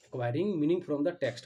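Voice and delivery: slow dictation. Shown as a demonstration. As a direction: dictate "Acquiring meaning from the text" word by word, slowly and loud. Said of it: "ध्यान से आप लोग सुनिए".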